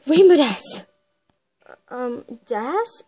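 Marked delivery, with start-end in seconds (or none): 0.1-0.9 loud, thrilled burst on rain with us; can't contain the fangirl joy; excited exclaim. Acted. Starstruck fan exclaims.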